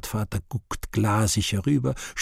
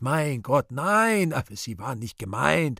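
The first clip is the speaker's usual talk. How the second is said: flustered; 4 semitones higher than usual. Acted.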